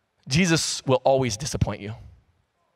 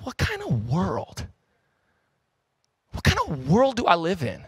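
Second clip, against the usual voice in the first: quiet despair; 3 semitones higher, slower than usual. Retold or imitated. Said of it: "I'm going".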